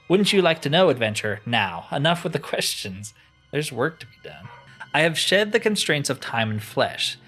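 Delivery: mildly theatrical, with dramatic rises and drops; a hint of pompous wizard; lightly voiced haughty enchanter. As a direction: play a condescending master, understated. Voices crystal enchanter in game.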